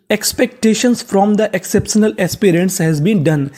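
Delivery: sentence read very slowly, word by word; careful dictation pace; slow model reading. Shown as a demonstration. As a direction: read it out slowly for learners to repeat. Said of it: "अब पूरा sentence देखते हैं".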